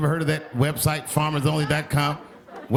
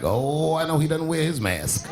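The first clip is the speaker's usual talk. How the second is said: country twang. Acted. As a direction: put on a light country twang. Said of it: "that twang where you hear that accent".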